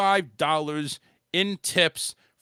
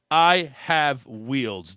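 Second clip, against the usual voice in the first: slow, grand announcing of good news; mock announcement; 3 semitones lower, much slower than usual. Lightly imitating Karen announcing she has wheels, slow. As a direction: proclaim it slowly like big news. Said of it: "she made the announcement".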